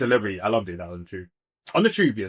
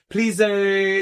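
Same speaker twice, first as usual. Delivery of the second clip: posh Yoruba twang; 4 semitones higher, 4 dB louder than usual. Retold or imitated. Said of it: "this posh, like, Yoruba thing".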